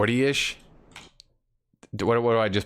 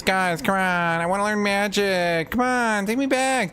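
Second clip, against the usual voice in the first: pleading in a much higher whine, stretching me; high, whiny mock plea to be taken back; whiny begging; 8 semitones higher than usual. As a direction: beg like a kid denied a treat. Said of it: "I'm like".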